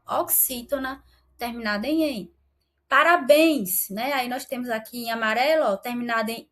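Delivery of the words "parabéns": Parabéns slowed down with the last syllable béns pushed out louder; slow stressed demo. Shown as a demonstration. Teacher shows students the stressed last syllable, slowly. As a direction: hold Parabéns and lean on béns. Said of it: "leva o acento agudo no em".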